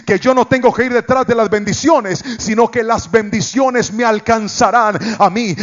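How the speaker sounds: fervent sermon delivery; preaching. Acted. Pastor preaching to his church, fervent sermon voice. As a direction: preach it to the congregation.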